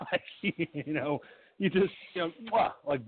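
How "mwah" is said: mock kissing noise, "mwah"; imitated blown kiss. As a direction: blow a quick pretend kiss. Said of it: "blew the kiss at the guy".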